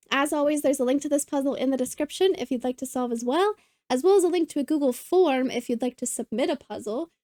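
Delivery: slightly breathless, talking on; short of breath while reading links. Real, not acted. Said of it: "I'm out of breath for some reason".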